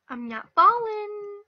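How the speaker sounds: loud, high, slow defiant cry; desperate cry. Real, not acted. Player clinging to the platform, crying out defiantly. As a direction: hang on and cry it out.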